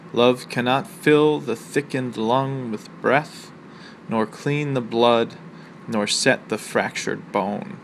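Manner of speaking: slow, measured poetry recital; reading a Millay sonnet to the class, measured and slow; poem reading. Acted. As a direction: give each line its weight like a sonnet. Reads the sonnet aloud.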